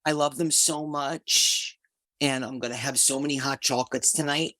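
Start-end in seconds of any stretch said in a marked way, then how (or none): 0.0-1.8 excited. Real, not acted. Group member raves about tonight's hot chocolate treats, excited. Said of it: "I'm so excited".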